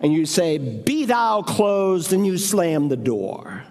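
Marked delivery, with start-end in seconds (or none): 0.6-2.1 slow, solemn mock blessing; mock pious. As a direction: pronounce it like a hollow benediction. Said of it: "You piously raise your hand and say".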